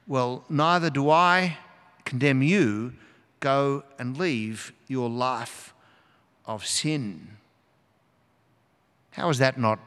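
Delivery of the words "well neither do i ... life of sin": forgive her gently, unhurried; tender Jesus. Acted. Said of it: "Jesus says to her tenderly".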